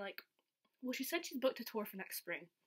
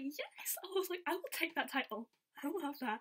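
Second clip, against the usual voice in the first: high, eager retold reply; excited acceptance; 5 semitones higher than usual. Fan retelling her answer to being given a title, excited. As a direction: gleefully claim it, pitch up.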